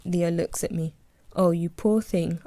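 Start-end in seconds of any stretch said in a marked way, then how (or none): 1.4-2.4 slow, mock pity; sarcastic sympathy. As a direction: drag it out, dripping sarcasm. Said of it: "I reply sarcastically".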